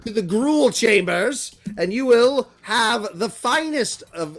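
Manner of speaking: imperious announcement in deliberate phrases; commanding slaver. Acted. Slaver sending captives to the gruel chambers, imperious. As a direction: order silence, then proclaim grandly.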